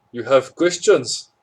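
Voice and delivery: slow, loud and booming. A narrator's reading. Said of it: "the man's voice boomed".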